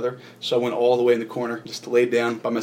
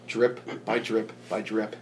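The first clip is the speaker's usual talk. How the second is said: slow, softer, evenly spaced words; slow dripping rhythm; 2 semitones lower, 5 dB quieter, slower than usual. Retold or imitated. Man describing oil falling in his vision, slow dripping rhythm. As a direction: let each word fall like a drop.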